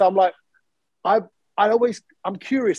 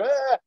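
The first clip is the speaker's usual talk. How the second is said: imitated noise; 7 semitones higher than usual. Imitates people rubbing his bald head.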